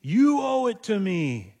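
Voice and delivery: mock entitled demand. Imagined offended woman demanding from Jesus, slow mock entitlement. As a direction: lean in with a hammed-up entitled claim. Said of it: "or seem entitled".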